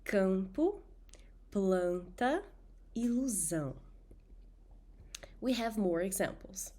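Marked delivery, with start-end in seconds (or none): 0.0-3.7 campo, planta, ilusão with nasal vowels; nasal vowel drill. Shown as a demonstration. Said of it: "don't forget to repeat after me".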